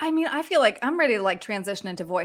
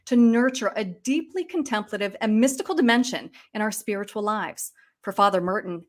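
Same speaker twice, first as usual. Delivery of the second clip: measured newscaster read; news voice. Shown as a demonstration. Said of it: "I'm gonna bust out a news voice".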